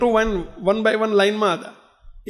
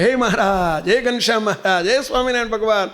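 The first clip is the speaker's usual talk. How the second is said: imitated crying out in prayer. Devotee clinging to the root begs God, imitated prayerful pleading. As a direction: act out a mildly desperate appeal for protection. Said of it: "બૂમો પાડે ને પ્રાર્થના કરે".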